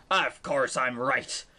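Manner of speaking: put-on a lightly growled pirate accent, low and slow; a hint of a gruff pirate captain ordering her off; lightly voiced pirate captain, slow and low. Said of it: "when you're speaking like a pirate".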